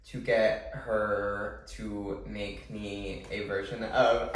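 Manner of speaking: slow, stiff robot voice. Real, not acted. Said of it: "I'm, like, talking like a robot".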